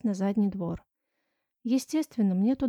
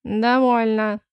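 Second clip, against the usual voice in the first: louder stern command; stern shout; 7 dB louder, much slower than usual. Acted. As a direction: shut the quarrel down. Notary slams the table. (нотариус обрывает ссору, громко)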